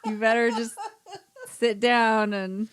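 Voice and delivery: cracking up while announcing it; giggling between the words; laughing. Real, not acted. Laughing warning about friend's accents.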